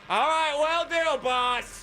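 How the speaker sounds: high, slow goofy pilot voice; helicopter pilot voice. Acted. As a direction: play the dopey sidekick pilot. Pilot character answers boss.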